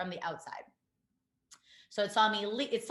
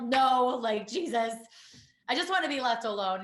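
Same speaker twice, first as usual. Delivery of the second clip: a sharp, exasperated brush-off, higher and louder; 3 semitones higher, 6 dB louder than usual. Retold or imitated. Woman retelling being asked if she's suicidal, exasperated. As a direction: snap back in disbelief at the question.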